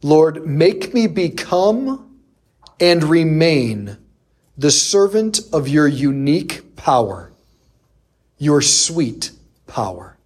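slow, solemn prayerful reading; reverent prayer. Retold or imitated. Quoting the Pope's prayer to the congregation, slow and reverent. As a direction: pray it slowly and humbly. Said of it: "This is what he says".

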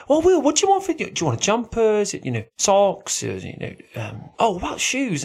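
imitating family. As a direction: play the fussing relative. Family asking about Christmas presents.

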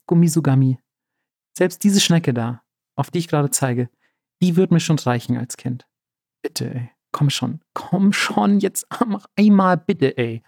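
a hint of whining pleading; whiny voice. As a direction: lightly whine a begging prayer. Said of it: "Das war übrigens Markus' Quengelstimme".

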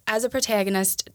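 slipping into a Minnesota accent; a touch of Minnesota vowels. Real, not acted. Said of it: "did you just hear my Minnesota accent?".

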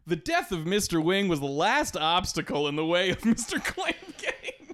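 high, laughing mock news read; laughing newscaster quote. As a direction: giggle through a newscaster line. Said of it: "the newscaster who's on the Clamp News Network".

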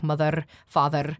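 "mother, father." with one kind of American R; R made with one tongue shape; a different R. Shown as a demonstration. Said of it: "you could make many different R's".

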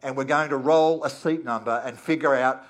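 loud, calm cockpit PA voice; airline pilot announcement. Pretend. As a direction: announce it like a pilot over the intercom. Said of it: "the captain's voice comes over the PA".

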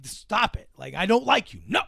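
half-hearted mock scolding; laughing but angry. She hides that she likes him, mock-angry protest. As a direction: protest while secretly amused. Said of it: "like, laughing but angrily".

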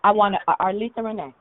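breathless after exercise; out of breath. Real, not acted. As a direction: talk while catching your breath. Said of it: "I'm out of breath".

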